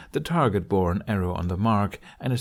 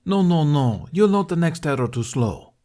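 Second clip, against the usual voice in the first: louder, higher stern archery instructor; critiquing teacher; 8 semitones higher, 6 dB louder than usual. Acted. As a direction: correct him sharply, a strict coach. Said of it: "Domokos critiqued".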